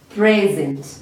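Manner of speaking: "Present" pronounced PRE-zent for repetition; teacher's model PRE-zent; stress on first syllable. Shown as a demonstration. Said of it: "our emphasis on the first part".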